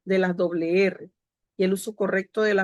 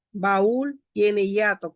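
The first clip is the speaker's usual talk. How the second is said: slow example; slower than usual. Shown as a demonstration. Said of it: "Ríos también tiene hiato".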